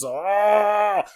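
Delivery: long, loud, high "ah"; drawn-out cry of frustration; exasperated gnome groan. Acted. Gnome fed up with a boy who never scores, exasperated groan.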